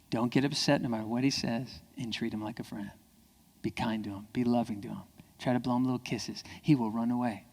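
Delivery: soft, low, kindly coaching; quiet and soothing; gentle. Real, not acted. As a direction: ease down into tender advice. Gentle advice on being kind.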